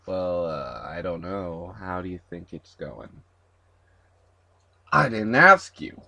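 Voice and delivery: ordinary talk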